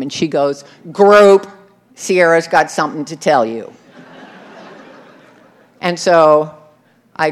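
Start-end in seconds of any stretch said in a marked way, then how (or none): 0.9-3.7 calling the group. Retold or imitated. Leader calling group's attention.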